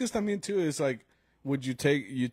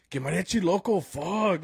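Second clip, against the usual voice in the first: higher mock outburst of frustration; retold fed-up demand, pushed higher; frustrated demand; 6 semitones higher than usual. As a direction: imitate a frustrated drunk partygoer, pitched up. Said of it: "all, like, frustrated".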